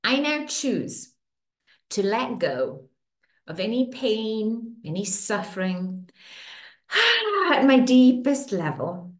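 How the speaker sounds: soothing tapping-session guide; guided affirmation. Acted. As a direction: speak each affirmation as a gentle promise.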